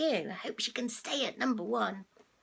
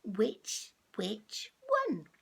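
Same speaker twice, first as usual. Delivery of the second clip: cat voice; 3 semitones lower, slower than usual. Shown as a demonstration. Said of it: "I can't say it".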